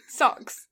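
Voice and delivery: "Socks" with its O said hard; attempted American "Socks", stressing the hard O. Shown as a demonstration. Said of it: "It's such a hard O".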